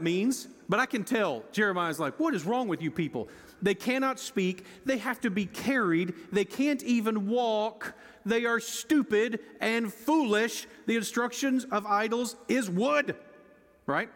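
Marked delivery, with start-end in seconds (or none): 2.2-13.2 contempt and sarcasm. Retold or imitated. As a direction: sneer it out like an exasperated prophet. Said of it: "drip with contempt and sarcasm".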